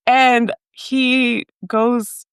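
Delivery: ordinary talk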